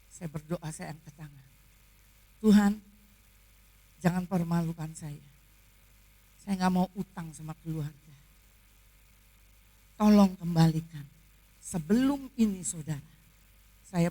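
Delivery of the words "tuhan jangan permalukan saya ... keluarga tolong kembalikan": low-pitched plea with long pauses; earnest pleading prayer. Retold or imitated. Patient praying not to owe family, low earnest plea. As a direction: plead with God, low and measured. Retold post-surgery prayer to God.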